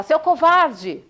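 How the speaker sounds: high, loud and slow furious insult; irritated boy yelling at the echo; angry shout. Retold or imitated. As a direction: hurl the insult with slow fury. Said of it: "ficar irritado e bravo".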